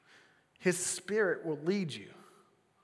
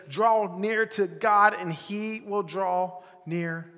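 slow scripture reading; 3 semitones higher, 6 dB louder, much slower than usual. Shown as a demonstration. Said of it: "reads James four eight".

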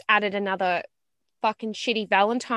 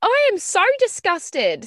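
real disgust; 10 semitones higher than usual. Real, not acted. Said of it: "Your face is disgusted".

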